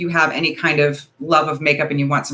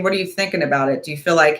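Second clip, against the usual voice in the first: ordinary delivery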